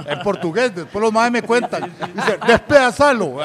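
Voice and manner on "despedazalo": loud, high mock urging; imitating a Portuguese speaker. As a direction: cry it out like a Brazilian instigator. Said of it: "así en portugués". (imitando grito en portugués, alto)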